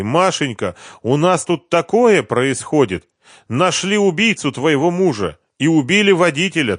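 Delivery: high, breathless neighbor's chatter; excited gossip. A narrator's reading. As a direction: spill the news, all wound up. (соседка взахлёб пересказывает Маше новости по телефону)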